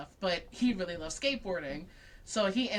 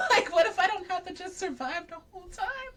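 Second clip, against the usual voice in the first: laughing; 9 semitones higher, 3 dB louder than usual. Real, not acted. Laughing realization.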